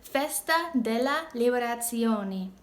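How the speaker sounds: Festa della Liberazione slowly, word by word; Italian pronunciation demo. Shown as a demonstration. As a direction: model Festa della Liberazione with lee-be-ra-TSYO-ne. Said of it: "In Italiano, you say".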